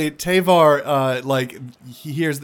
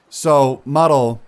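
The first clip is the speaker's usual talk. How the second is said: lightly voiced louder reassurance; Tavar's voice; 3 semitones higher, 4 dB louder than usual. Tavar reassuring Muddle, lightly louder voice. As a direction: tell her it isn't her fault. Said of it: "he looks over at you, Muddle".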